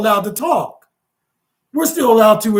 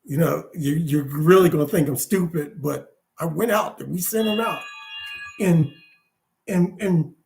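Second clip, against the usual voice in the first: lower-pitched, halting report; sheepish spy; 5 semitones lower, 4 dB quieter than usual. Acted. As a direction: hedge like a scout afraid of looking stupid.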